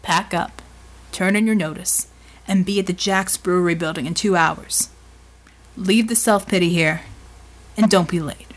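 brisk instructions, evenly delivered; understated commander's orders; big man giving orders. Acted. Voices Bulwark giving orders.

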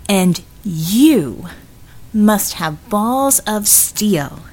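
Vivian, wary. Acted. Vivian confronting Red who found her, wary and pointed. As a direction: stretch the words out at an unwelcome old associate.

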